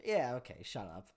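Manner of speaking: low, soft mock brush-off; retold dismissiveness. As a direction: wave it away under a laugh. Everyone's dismissive reply, retold.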